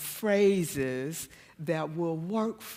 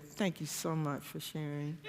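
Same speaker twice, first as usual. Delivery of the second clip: mock calm; 10 dB quieter than usual. Husband deflects her advice.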